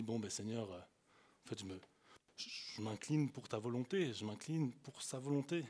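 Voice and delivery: soft, low re-enacted prayer; hushed, understated surrender; submissive prayer. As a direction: yield to God quietly. Retold prayer of surrender to God.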